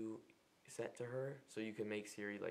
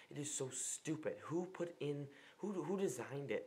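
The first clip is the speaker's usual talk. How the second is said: exasperated; 5 semitones higher than usual. Real, not acted. Ranting about autocorrect.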